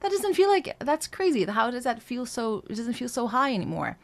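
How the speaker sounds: high, surprised student voice; amazed student. Retold or imitated. Voice coach imitating an amazed student, mildly. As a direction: gush like a stunned student. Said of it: "Sometimes students are like".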